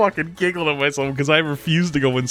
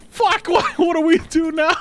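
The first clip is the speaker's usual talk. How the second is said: panicked shout. Retold or imitated. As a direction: yell it out, totally freaking out. Panicking friends asking what to do.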